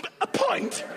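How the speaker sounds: disbelieving squeak; surprised. Acted. Son shocked at ill dad's pint.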